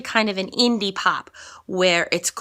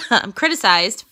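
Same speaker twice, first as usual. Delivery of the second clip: mild mad; 3 dB louder than usual. Shown as a demonstration. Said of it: "she's kind of mad".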